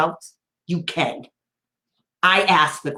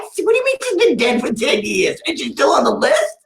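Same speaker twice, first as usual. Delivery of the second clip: shocked disbelief; 3 semitones higher than usual. Retold or imitated. Shocked at the dead evaluator.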